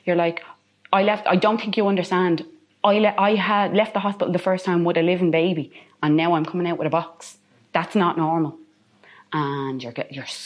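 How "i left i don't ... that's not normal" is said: retold yelling at people. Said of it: "You keep screaming at people".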